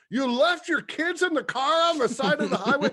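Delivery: high, loud, disbelieving question; incredulous. Retold or imitated. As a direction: shout the disbelief, eyebrows up. Incredulous retort to panhandler.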